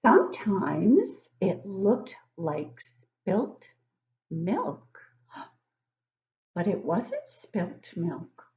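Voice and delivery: slow, drawn-out storybook reading; reading to children. Acted. Teacher reading a picture book to young kids, slow and storybook-like. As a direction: read it slowly to the class, savouring each line.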